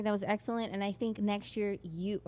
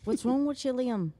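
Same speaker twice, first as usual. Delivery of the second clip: playful mock Scottish lilt; Scottish accent; 3 semitones higher, 3 dB louder than usual. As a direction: imitate a comic Scottish accent. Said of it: "that was my Scottish accent".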